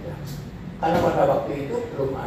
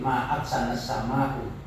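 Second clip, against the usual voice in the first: ma'aksana sama'u said slowly on a level tune; flat intonation; 4 semitones lower, 5 dB quieter, slower than usual. Shown as a demonstration. Teacher demonstrating the plain statement, slow and level. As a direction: keep ma'aksana sama'u even, no rise or fall. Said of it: "datar aja".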